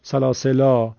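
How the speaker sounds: سلاسلا said with a long final a; pausal repeat. Shown as a demonstration. The teacher repeats the reciter's form. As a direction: echo سلاسلا with the alef sounded.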